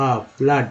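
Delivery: आ, then फ्लड with that open a; double O as आ. Shown as a demonstration. Teacher answering how double O is read in flood, आ sounded out. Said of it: "double ओ को क्या बोलते हैं".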